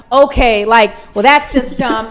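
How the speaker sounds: mock dismissive ex; imitated dismissiveness. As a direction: imitate a partner brushing you off. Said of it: "it's not sarcasm".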